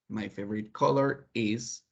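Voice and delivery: slow, drawn-out model phrase for learners; slow model answer. Shown as a demonstration. Teacher modelling an English answer for Spanish-speaking students, slowly. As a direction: lay each word out slowly for the class. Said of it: "What's your favorite color?".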